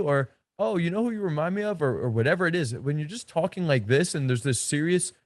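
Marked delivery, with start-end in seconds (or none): 0.6-1.8 higher and fast, light and fun tease; playful teasing. Shown as a demonstration. Coach showing a playful nightclub tease, animated. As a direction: toss it out like a joke. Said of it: "I'm really having a lot of fun".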